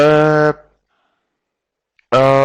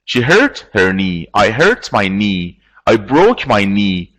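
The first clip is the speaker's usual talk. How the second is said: slow model sentences; slower than usual. Shown as a demonstration. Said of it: "This is absolutely correct".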